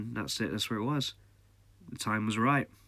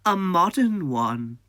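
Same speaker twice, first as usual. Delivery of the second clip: put-on much higher, louder, slow old woman voice; a quaint old lady marvelling; old conductor lady; 9 semitones higher, 9 dB louder, much slower than usual. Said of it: "And she went".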